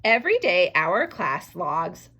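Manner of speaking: slow, stretched reread of the sentence so far. Shown as a demonstration. Teacher rereading the sentence slowly for her class. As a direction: drag each word out for the class. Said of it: "I'm rereading every time I add a new word".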